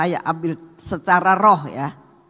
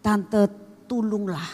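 pleading; 3 semitones higher, 3 dB quieter than usual. Retold or imitated. Young man begs after crying.

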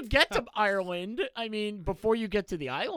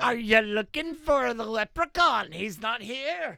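slow mock-Irish local; drawn-out stage Irish; Irish accent; slower than usual. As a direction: taunt a tourist slowly in a put-on Irish accent. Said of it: "I would assimilate an accent".

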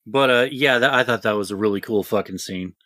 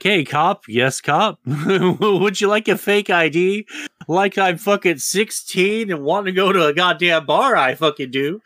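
mock cop offer; 6 semitones higher than usual. Mocking police handing out fake IDs.

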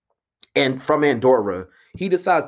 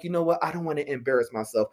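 softer, hushed self-talk; quiet inner voice; 6 dB quieter, faster than usual. Retold or imitated. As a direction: say it softly to yourself, timid. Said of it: "I'm like".

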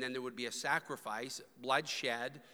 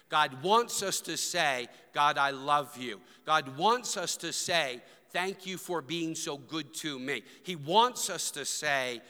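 raised, rhythmic preacher's delivery; emphatic preaching; 3 semitones higher, 5 dB louder than usual. Real, not acted. Preacher urging the church to say it, emphatic preaching. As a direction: drive each line home to the congregation.

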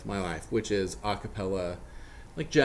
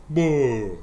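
open resonant boo; 2 semitones higher, 4 dB louder than usual. Shown as a demonstration. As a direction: round open boo with lots of space. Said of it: "sing even more like".

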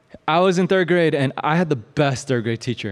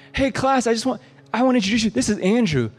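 teacher voice; 8 semitones higher than usual. Retold or imitated.

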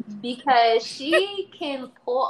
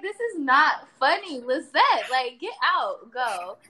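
retold scolding, pitched up at the start; mock exasperation; 3 semitones higher, 4 dB louder, slower than usual. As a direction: playfully tell her off, louder then easing down. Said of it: "And I'm just like".

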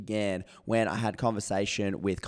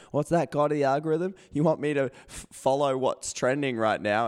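raised, louder, eager voice; mock eager question; 5 semitones higher, 3 dB louder than usual. Host mockingly asks the algorithm god, keen and loud. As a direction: play the keen servant asking the algorithm what it wants. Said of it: "and Conrad goes".

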